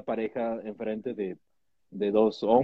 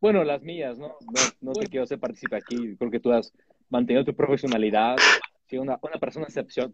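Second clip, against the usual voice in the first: fresa voice. Acted. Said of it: "Por qué sigo hablando como fresa".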